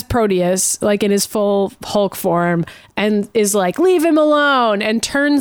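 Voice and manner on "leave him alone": slower, higher, lightly acted command; a hint of a slow superhero order; commanding rescuer. Kevin tells bullies to back off, lightly acted command.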